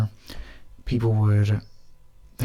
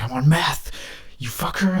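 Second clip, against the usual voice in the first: mock threatening tweaker; 6 semitones higher than usual. Imagined dancing guy threatening him.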